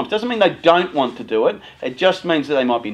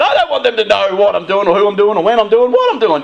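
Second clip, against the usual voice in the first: put-on higher, louder panicky teen voice; mock-panicked young person; freaked-out teen; 7 semitones higher, 6 dB louder than usual. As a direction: gabble it like a kid desperate to hide things. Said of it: "you're freaking out, saying".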